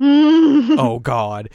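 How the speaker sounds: high, loud panicked cry; panicked shriek. Retold or imitated. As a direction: shriek it in alarm. Mio panics about practice.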